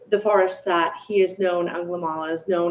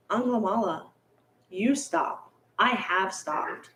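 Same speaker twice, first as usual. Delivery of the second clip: softer, slow, serene reply; softer, very slow calm of a sage; calm Buddha; 5 dB quieter than usual. Acted. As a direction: say it quietly and unhurried, settled. Buddha answers calmly.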